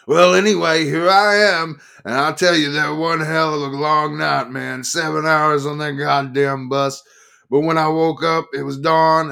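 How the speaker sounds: loud, high, rough-edged biker telling his tale; rowdy biker. Acted. Harley-shirt biker telling the press crowd his trip, loud and high. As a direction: play the boozy biker bragging to the crowd.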